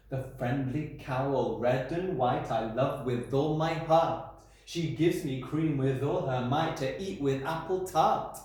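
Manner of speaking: slow, sing-song recital with a beat; rhythmic poem reading. Shown as a demonstration. Teacher reading the poem to the class, slow and rhythmic. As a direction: read it out so the rhythm shows.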